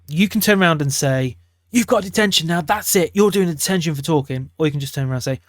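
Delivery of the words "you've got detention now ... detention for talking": higher, stern detention snap; stern telling-off. Shown as a demonstration. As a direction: snap the sanction at the student like a cross teacher. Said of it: "Notice how you can just say it calmly".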